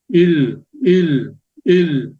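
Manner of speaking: IL ending between R and L; Korean final consonant. Shown as a demonstration. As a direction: end IL on a sound between R and L. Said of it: "kind of between an R and an L".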